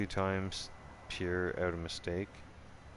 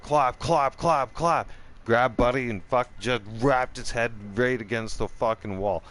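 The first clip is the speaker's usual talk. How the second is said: building excitement; 4 semitones higher, 6 dB louder than usual. Real, not acted. Excited retelling of the beating.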